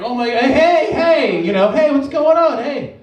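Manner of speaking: animated greeting to catch attention; super expressive. Acted. Worker greeting a scared foreign tourist, super expressive. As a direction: coax a lost tourist with big hellos. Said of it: "you have to be, like, super expressive".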